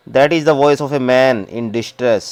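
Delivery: reads the English very slowly, word by word; slow story reading. Acted. Teacher reading the story text to the class, slow and deliberate. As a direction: spell the story out slowly for students.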